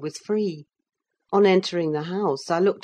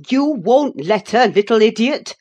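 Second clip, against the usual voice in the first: louder, higher scornful echo of his words; indignant exclamation; 6 semitones higher, 8 dB louder than usual. Acted. Nelly to Linton, scornfully indignant. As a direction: fling his words back at him. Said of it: "I exclaimed".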